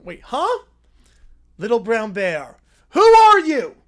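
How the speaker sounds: little bear jolted awake. Acted. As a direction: squeak it out like a startled cub. Little Brown Bear wakes, startled.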